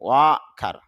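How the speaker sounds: ওয়াকার said with no r sound, falling; correct English pronunciation. Shown as a demonstration. Teacher models ওয়াকার for students, no r. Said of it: "ওয়ার্কার এরকম না".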